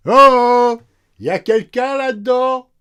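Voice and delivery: very high, booming halloo; loud, high-pitched, drawn-out call. Acted. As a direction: holler into an empty room for an intruder. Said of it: "Mais moins fort".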